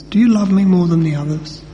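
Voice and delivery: a plain, earnest asking without irony; sincere question. Acted. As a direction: ask it gently and honestly. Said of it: "He wasn't being sarcastic".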